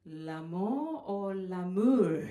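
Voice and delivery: slow and puzzled, asking whether « l'amour » is love or friends; mock puzzled slow question. French friends puzzled by her accent, slow, questioning. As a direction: spell out « L'amour ou l'amour? » slowly, as two different words. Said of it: "c'est ma prononciation".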